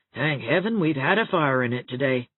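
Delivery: Rebecca's private fretting, lightly voiced; relieved inner thought. A narrator's reading. Rebecca thinks to herself, lightly voiced relief. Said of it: "she thought".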